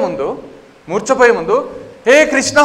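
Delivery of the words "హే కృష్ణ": high, loud call for help; acted scream to a brother; frightened cry for Krishna. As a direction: cry out before fainting. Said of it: "బలరాముడు అరిచేసరికి".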